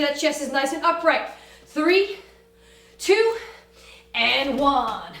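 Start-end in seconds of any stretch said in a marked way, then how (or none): 1.7-5.1 barking countdown. Real, not acted. Coach counting down loudly.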